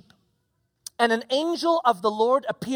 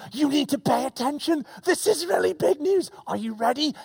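eager announcement; 4 semitones higher than usual. Pretend. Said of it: "hands on your cheeks and go".

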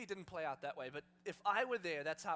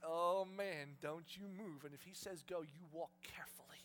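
lowered, softening to a whisper; cautious colt; 3 semitones lower than usual. Acted. Colt carrying Jesus and afraid to move, hushed caution. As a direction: warn yourself under your breath. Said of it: "when the animal's like".

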